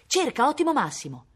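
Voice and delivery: high, loud call to a dog; search command. A narrator's reading. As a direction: send the dog off hunting.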